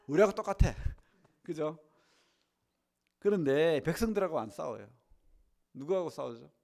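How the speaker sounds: normal talking voice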